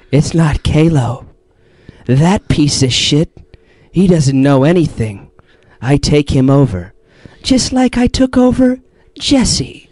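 slow, menacing possessed voice; the Creator, Kalo impression. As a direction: imitate a friend playing his evil alter ego, very deliberate. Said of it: "with the Kalo impression".

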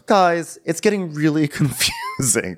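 Kyle. Retold or imitated. Kyle addressing the squabbling guys, lightly mimicked. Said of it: "So Kyle goes".

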